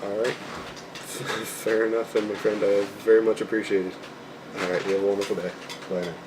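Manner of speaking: polite customer service phone voice; friendly, formal voice for a call. Real, not acted. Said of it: "You guys got to hear my phone voice".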